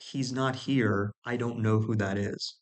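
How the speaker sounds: slowed right down, every word laid out; slow deliberate repeat. Shown as a demonstration. Repeating his phone reply slowly to make a point. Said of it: "let me repeat that".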